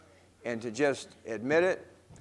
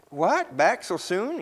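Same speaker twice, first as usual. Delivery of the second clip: slow, higher surprised greeting; exclaiming; 6 semitones higher, slower than usual. Acted. Shopkeeper surprised to see Peter back, exclaiming. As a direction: act pleasantly surprised to see him. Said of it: "exclaimed Missus Green".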